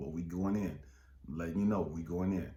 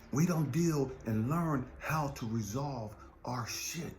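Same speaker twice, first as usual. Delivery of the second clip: slow, hushed whisper; a slow whispered confession; 3 semitones higher, slower than usual. Real, not acted. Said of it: "whispered slowly".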